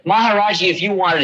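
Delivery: a hint of a devoted young follower; eager devotee. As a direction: offer it up eagerly to the teacher. Young devotee offers car.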